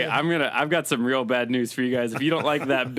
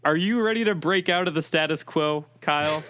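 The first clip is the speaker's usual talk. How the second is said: muffled Bane voice through cupped hands; hands cupped over mic. Acted. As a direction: talk into your hands, lightly as Bane. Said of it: "is me talking into my hands".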